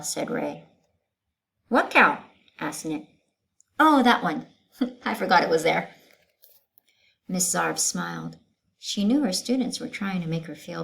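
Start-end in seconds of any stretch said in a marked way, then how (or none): 1.7-2.2 student voice. Acted. Student Nick. 3.8-5.9 laughing student. Acted.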